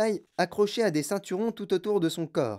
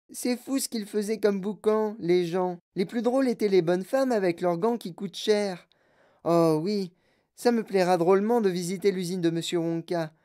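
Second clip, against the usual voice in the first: put-on bratty girl voice; 2 semitones higher than usual. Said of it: "Elle parlait très vite et très fort".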